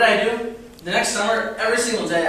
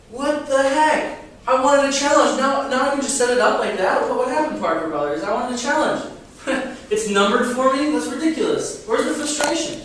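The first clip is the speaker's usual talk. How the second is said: mock outrage; 5 semitones higher, 3 dB louder than usual. Mock complaint about numbered puzzle.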